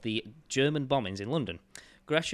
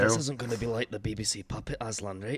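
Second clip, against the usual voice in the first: put-on Scottish actor impression; Gerard Butler; 4 dB louder than usual. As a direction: attempt a tough Scottish accent. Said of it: "I'm channeling my, my butler".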